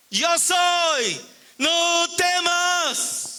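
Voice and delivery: high, drawn-out proclamation; Jesús. Acted. Jesus declaring himself to frightened disciples, long high proclamation. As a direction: ring it out slowly, each word held. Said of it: "Jesús dijo".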